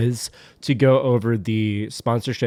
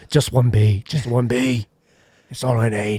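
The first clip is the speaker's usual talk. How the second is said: understated tough-guy movie line; Jason Statham; 2 semitones lower than usual. Acted. Star in his beekeeper film, lightly gruff. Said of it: "The beekeeper".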